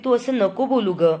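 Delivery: a touch of a mother's annoyed rebuke; retold anger. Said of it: "कल्पना पण तिच्यावर चिडते".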